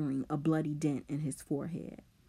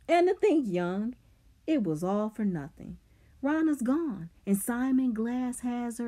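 raised, higher-pitched, scornful jeer; taunting boy; 6 semitones higher, 4 dB louder than usual. A narrator's reading. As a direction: rub it in, stretching the last stinging words. Simon's taunting speech.

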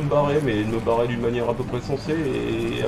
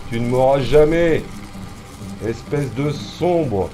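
louder gloating jeer at the pursuer; loud taunt; 5 dB louder, slower than usual. Real, not acted. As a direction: throw it at him like a dare. (provocation lancée fort au poursuivant)

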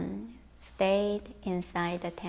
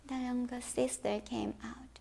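hushed whisper; spooky storyteller whisper; suspense whisper; 2 semitones higher, 12 dB quieter than usual. A narrator's reading.

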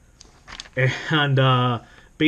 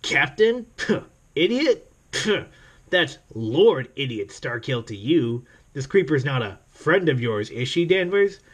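hammed-up Star-Lord. Reading evil Star-Lord's line to Danvers, mock-pompous and scoffing. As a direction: sneer it out like a pompous villain.

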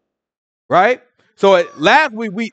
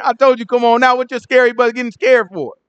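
teasing scold; 5 semitones higher than usual. Retold or imitated. Yahushua teasing Peter.

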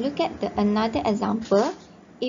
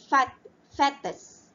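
fat, fattest said slowly, higher and louder; slow modelling; 4 semitones higher, 4 dB louder than usual. Shown as a demonstration. Teacher modelling the word pair for class, slow and raised. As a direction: model the two words for repetition. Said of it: "teacher models the word pair".

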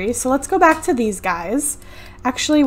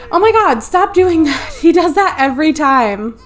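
exasperated; 4 semitones higher, 3 dB louder than usual. Real, not acted. Exasperated at game character.

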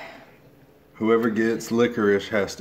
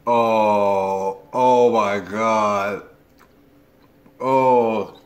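disgusted groan; 5 dB louder, much slower than usual. Real, not acted. Disgusted by bad jelly bean.

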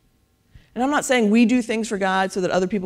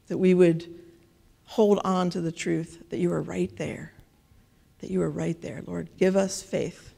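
prayer; 2 semitones lower than usual. Acted. Closing prayer.

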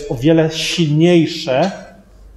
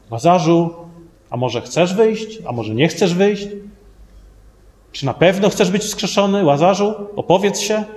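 hesitant questioning; 3 semitones higher than usual. Pretend. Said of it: "Żadnej niepewności, żadnego zachwiania".

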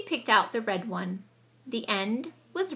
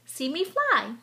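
eager boast; 5 semitones higher than usual. A narrator's reading. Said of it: "he crowed".

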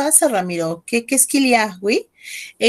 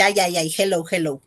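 1 mock student reply; 4 semitones lower, 3 dB quieter than usual. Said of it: "y me dijiste".

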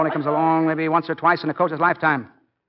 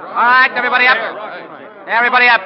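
calling out; 6 semitones higher, much faster than usual. Acted. Coach calls players onto field.

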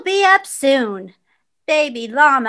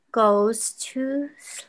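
slow soft whisper to sleep; whispered ending; 4 semitones lower, 6 dB quieter, slower than usual. A narrator's reading.

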